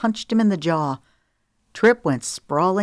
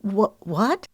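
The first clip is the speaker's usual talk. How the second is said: mild stammer; 5 semitones higher than usual. Acted. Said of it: "she stammered".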